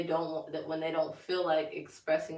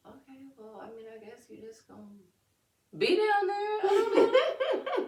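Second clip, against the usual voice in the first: mock resignation; 9 semitones higher, 6 dB louder than usual. Parent to toddler on the floor, mock resigned. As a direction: give up on the child, from hushed to high. Voices resigned reply to child's fit.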